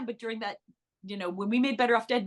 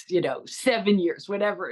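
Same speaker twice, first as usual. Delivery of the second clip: Curtis impression; 2 semitones lower than usual. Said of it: "And Curtis, you know".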